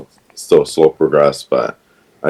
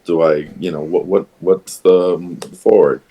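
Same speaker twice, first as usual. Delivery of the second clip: higher, bright-eyed rush of questions, relieved; relieved and eager; 5 semitones higher than usual. Retold or imitated. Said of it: "I was just relieved".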